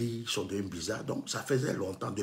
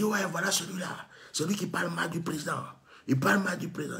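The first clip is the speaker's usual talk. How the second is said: accusing guard; 7 semitones higher than usual. Retold or imitated. Agent denouncing him at gate.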